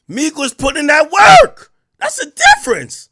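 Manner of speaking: loud, high hype shout; laughing hype shout; shouting over music. Real, not acted. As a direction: yell it over the blasting track.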